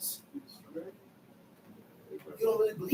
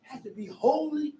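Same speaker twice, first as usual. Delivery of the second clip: preaching. Real, not acted. Preacher shouting.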